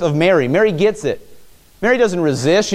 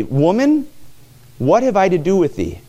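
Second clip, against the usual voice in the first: disrespectful; 3 semitones higher than usual. Retold or imitated. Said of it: "that sounds really disrespectful".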